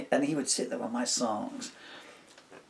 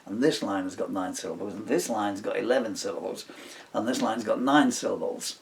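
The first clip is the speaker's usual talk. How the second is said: retold bandmate; 7 dB louder than usual. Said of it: "So he'd say".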